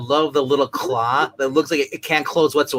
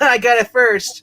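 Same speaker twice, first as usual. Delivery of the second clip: high, slow quoted line; voicing a cocky hero; Hawkeye voice; 10 semitones higher, 7 dB louder than usual. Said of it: "Hawkeye's like".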